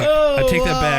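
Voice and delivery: high, loud fake sob; mock crying. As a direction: whine it like crying. Cry heard, high.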